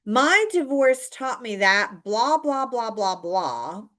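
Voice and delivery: slow, lightly dramatic mock overshare; oversharing example. Shown as a demonstration. Coach mocking an oversharer, slow and lightly dramatic. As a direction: drag out the life story a bit. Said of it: "this would be too much".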